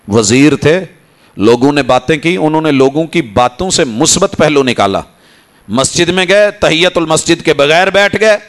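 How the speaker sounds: ordinary talk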